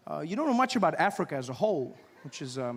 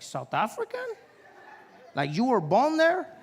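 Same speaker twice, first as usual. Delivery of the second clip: higher, rising disbelieving question; imitated incredulity; 6 semitones higher, 3 dB louder than usual. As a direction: echo it back as if it can't be true. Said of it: "He's like".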